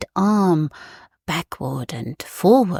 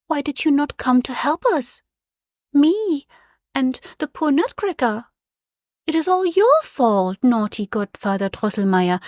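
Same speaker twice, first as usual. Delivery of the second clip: Maria; 3 semitones higher than usual. Acted. Sick child Maria reproaching godfather.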